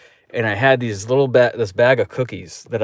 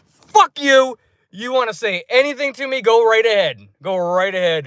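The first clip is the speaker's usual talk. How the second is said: high-pitched, defiant challenge; retold annoyance; 9 semitones higher than usual. Moviegoer challenges the people who dumped his cookies, annoyed. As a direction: act out daring them, starting high and strong. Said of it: "I was just so annoyed".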